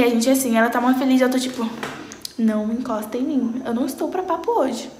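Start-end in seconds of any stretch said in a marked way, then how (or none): 2.4-4.9 soft, sulky brush-off; grumpy mock. The speaker brushes off her happy friend Maria in a sulky tone. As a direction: warn her off, sulkily. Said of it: "É desse jeito".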